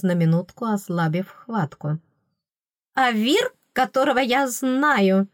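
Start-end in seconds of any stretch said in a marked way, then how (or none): 2.9-5.3 higher, ardent finish. A narrator's reading. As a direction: finish with passion. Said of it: "закончила пылко". (пылко, выше обычного)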